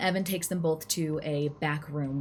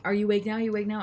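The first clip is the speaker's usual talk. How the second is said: raised, higher, needling question; mild imitation of a yelled demand; mock yelling; 5 semitones higher, 4 dB louder, much faster than usual. Boyfriend at girlfriend pretending to sleep, mock yelling. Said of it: "he starts yelling at her".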